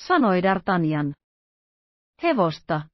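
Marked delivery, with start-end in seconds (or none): 2.2-2.8 a disgusted, startled Hevosta?; grimacing exclaim. A narrator's reading. Aramis learns he ate horse, grimacing exclaim. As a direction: recoil at the word. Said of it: "huudahti Aramis irvistellen".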